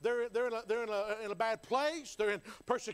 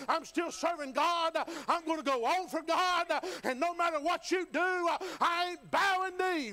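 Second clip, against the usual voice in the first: building from steady to fervent, a little louder and higher; defiant Hebrew boy; 5 semitones higher, 4 dB louder than usual. Acted. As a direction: voice a young man refusing the king, rising in conviction. Preacher voices defiant Hebrew boys.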